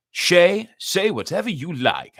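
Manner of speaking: high, loud call to a viewer; eager reply. Real, not acted.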